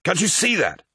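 high-pitched, hurt appeal; impassioned pleading. Acted. Malachhurst defends acting out of love, pleading. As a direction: plead with him, pitch climbing.

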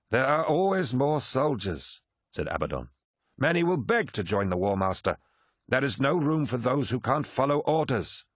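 high, forceful captain's voice; hard-line Abaddon. Abaddon urges Horus to destroy Angron, forceful. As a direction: condemn him without hesitation.

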